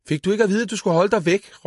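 high, loud furious yell; angry boy shouting. A narrator's reading. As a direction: shout at the brother who laughs. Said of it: "råbte Karl".

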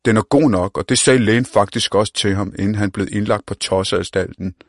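put-on cocky street-kid voice; brash young slang talker. The speaker jokes about Omar.

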